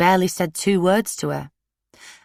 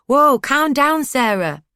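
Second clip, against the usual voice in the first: calm down; 9 semitones higher, 4 dB louder, slower than usual. A narrator's reading. Zach holding her back.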